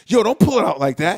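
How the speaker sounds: loud half-sung yell in a toilet stall; mock shout. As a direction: belt it out like a mock scolding. Stall scene, yelling at nephew.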